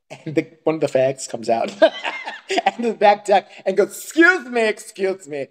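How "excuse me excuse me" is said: high, fussy mock "excuse me"; put-on prissy voice, pitched up; imitated affected neighbour. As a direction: mimic the neighbour's affected, offended call. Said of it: "one of them does talk like that".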